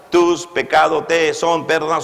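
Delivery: "Tus pecados te son perdonados" spoken slowly, word by word; drawn out. Shown as a demonstration. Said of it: "son más".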